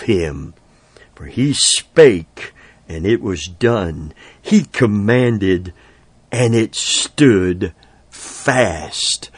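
measured, weighty reading of a psalm, slowing at the ends; solemn scripture reading. Acted. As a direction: read the verses like holy proclamation. Reads Psalm 33 aloud.

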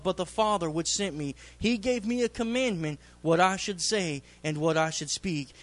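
measured reading of the verses; scripture reading. Acted. Preacher reading scripture to the congregation, measured and reverent. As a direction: read the Gospel words with reverence.

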